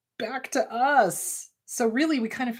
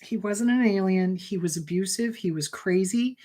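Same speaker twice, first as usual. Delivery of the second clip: put-on comforting inner child; 3 semitones lower than usual. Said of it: "really talk her through".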